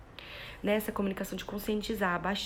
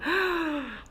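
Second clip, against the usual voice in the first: put-on high, shocked gasp for the child; dramatic gasp; 7 semitones higher, 3 dB louder than usual. Shown as a demonstration. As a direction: act out the fright of the crash. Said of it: "vou demonstrando na expressão".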